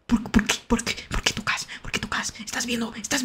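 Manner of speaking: hushed, secretive whisper. Real, not acted. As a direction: whisper it as if not to be heard. Secretive aside to chat. (susurro en secreto)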